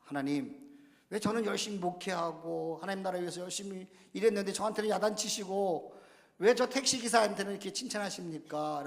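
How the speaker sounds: lightly acted indignant complaint; mild mock protest. Pastor questions God over being scolded, mild protest. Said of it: "하나님께 따져서 물었습니다".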